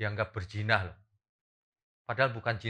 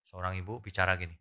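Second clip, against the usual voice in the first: usual speaking voice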